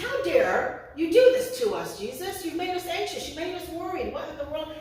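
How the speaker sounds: acted motherly telling-off; mock scolding. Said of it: "she kind of scolds him".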